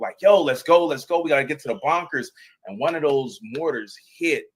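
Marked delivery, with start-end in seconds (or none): 0.2-2.3 raised, higher-pitched hurry-up call; re-enacted urgent shout, not full force; urgent evacuation call. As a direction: call out as if moving people to safety. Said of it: "I'm evacuating people".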